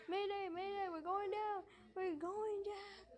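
high, urgent pilot distress call; mayday radio call. Pretend.

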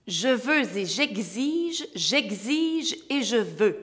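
very slow, over-articulated; slow diction. Shown as a demonstration. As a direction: spell out each syllable slowly. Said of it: "Comme celle-ci".

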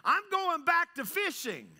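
high, emphatic announcement of quitting; frustrated. Acted. Peter quitting apostleship to go back fishing, frustrated. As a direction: act out being fed up and done. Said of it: "He's so frustrated and he feels like a failure".

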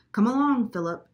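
high, loud singsong call, falling on the name; chirped. A narrator's reading. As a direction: chirp it to summon the boy. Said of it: "she chirped".

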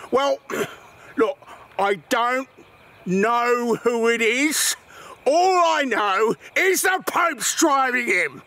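put-on English-accented police chief, halting build-up. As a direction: spell it out as an English officer. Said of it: "English accent, got it, right".

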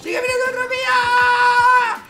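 high panicked shout, slow; being chased. Real, not acted. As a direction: shout while running away. Baldi chasing him.

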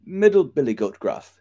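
high-pitched goat reply; high voice of a smallish goat; middle billy goat. A narrator's reading. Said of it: "said the goat".

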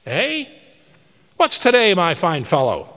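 put-on high, loud giddy old man; elated calling out. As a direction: call down to the street overjoyed. Scrooge calls down to the boy.

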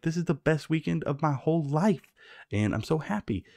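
high-pitched, imitated gushing; mock delight. Sally Field's character's joy acted out.

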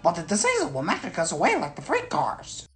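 high-pitched engine voice, horrified; horrified little engine. A narrator's reading. Twins fear the diesel's magic, high and horrified. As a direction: fret it like a scared small engine. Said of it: "Bill and Ben were horrified".

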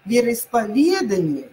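Вероисповедание with stress on ВЕ of повЕдание; first option: stress on Е. Shown as a demonstration. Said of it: "Е или А?". (вероисповЕдание)

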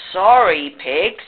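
mildly guilty, stretched-out sorry; lightly voiced guilty goat; guilty apology. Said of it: "said Goat guiltily".

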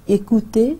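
écouter, "ay-koo-TAY", clean French vowels; French word said clearly. Shown as a demonstration. Teacher models écouter for Urdu-speaking students, clear French. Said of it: "अब देखें".

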